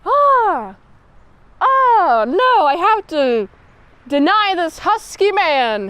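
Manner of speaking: pine over the husky man and force yourself to refuse him; torn swooning lady. Acted. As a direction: lovesick officer sighing that she must turn down a god. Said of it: "her face expressions is like".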